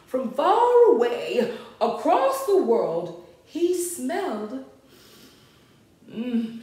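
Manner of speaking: lively, sing-out story reading; storybook narration. A narrator's reading. Reader tells children of Max's room, storybook narration. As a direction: read it to small children, animated.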